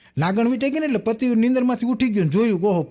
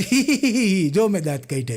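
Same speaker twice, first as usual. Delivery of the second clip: mock giggle. Madman shows teeth by laughing.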